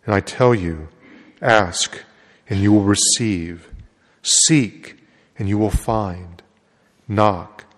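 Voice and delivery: solemn liturgical proclamation; gospel reading. Acted. Priest proclaims the gospel at Mass.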